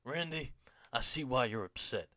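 lightly acted wrestling promo; measured, theatrical delivery with a lift on the name; Bray Wyatt promo. Host acts out Bray Wyatt addressing Randy, mock promo. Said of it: "top tier Bray Wyatt".

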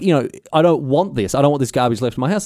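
mock-grumble like an irked mate; mildly cross. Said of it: "he got cross with me".

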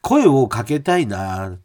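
lively radio mail reading, pitch often lifted; listener mail read. Acted. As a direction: read the letter aloud with animated, performed emphasis. リスナーのメールを読み上げる. (抑揚をつけたメールの朗読)

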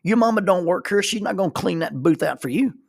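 loud mocking threat; bully's taunt. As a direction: lean over the table and taunt the boy. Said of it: "And he says".

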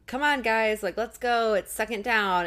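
lightly acted impatient team captain; urging teammates on. Sister rallying her football team, retold urging.

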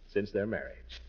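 lightly voiced storybook reading; unhurried read-aloud of Dickens for the kids; story narration. Uncle reading Dickens to the children, gentle storytelling narration.

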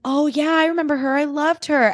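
high, sweet imitation of fans in their fifties; imitating older women. S0 imitating women in pink gushing over Barbie, high. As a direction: lift it high and gushing, a light mock. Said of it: "they were like".

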